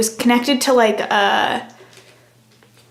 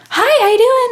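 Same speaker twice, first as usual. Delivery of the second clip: high, louder friendly hi; lightly imitated easygoing star; breezy celebrity greeting; 12 semitones higher, 5 dB louder than usual. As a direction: toss off a casual hello. Imitating Chris Pratt's greeting.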